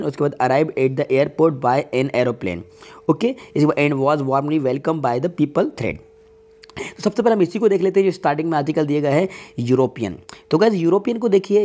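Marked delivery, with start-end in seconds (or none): 0.4-6.0 slow, measured classroom reading; slow sentence reading. Acted. Teacher reads the next question to students, slowly and deliberately. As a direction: read it out slowly, word by word.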